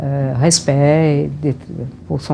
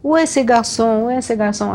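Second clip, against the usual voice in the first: voix de chef un peu plus aiguë, imitée; Vargas; 5 semitones higher than usual. Retold or imitated. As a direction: imiter le président qui réclame son photographe. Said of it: "il disait". (imitation légère de Vargas)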